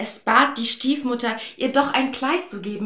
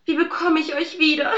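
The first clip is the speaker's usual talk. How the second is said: high, louder wail; lamenting; 7 semitones higher, 5 dB louder than usual. Acted. Aschenbrödel wailing over lost nuts, high. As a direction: cry out in dismay. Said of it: "jammerte es".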